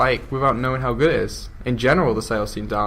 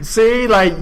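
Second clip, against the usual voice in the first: laughing; 8 semitones higher, 5 dB louder, much slower than usual. Real, not acted. Guest laughing, embarrassed.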